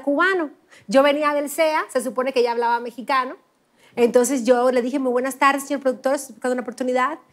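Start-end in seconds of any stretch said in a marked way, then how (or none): 5.0-7.2 lightly put-on careful Mexican Spanish, every S and R pronounced; mock-polished Mexican Spanish accent. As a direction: speak like a studied Mexican newcomer. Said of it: "yo hablaba así, todo padre, la S, la R".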